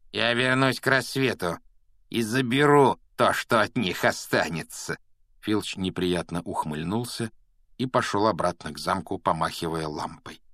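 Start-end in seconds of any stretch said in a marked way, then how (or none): 0.1-5.0 sinister caretaker voice. Acted. Filch's parting threat.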